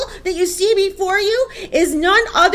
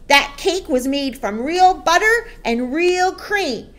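loud, indignant, raised-pitch rant; shouted tirade; 5 semitones higher, 8 dB louder than usual. A narrator's reading. Headmistress accuses boy of stealing her cake, shouting. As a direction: rant the charges to a whole hall. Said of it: "the Trunchbull shouted".

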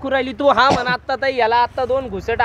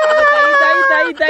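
higher, louder calls of ताई; calling out; 13 semitones higher, 4 dB louder than usual. Acted. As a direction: call the fainted sister in alarm. Calling out to fainted sister.

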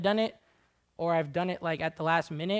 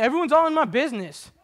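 whiny complainer; 8 semitones higher, 10 dB louder than usual. Retold or imitated.

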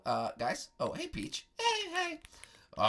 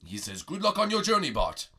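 wise master voice; 3 semitones lower than usual. Acted. Master Prego relays farewell.

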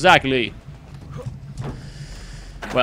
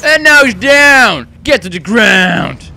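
shout; 4 semitones higher, 9 dB louder, slower than usual. Pretend. Shouting during a kill.

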